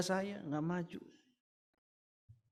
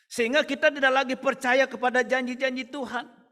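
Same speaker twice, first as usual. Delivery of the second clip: loud, raised preaching that hammers each complaint; preaching at full force; 10 semitones higher, 8 dB louder than usual. Acted. Pastor voices believers' complaints to God, loud preaching. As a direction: preach hard, driving every mana home.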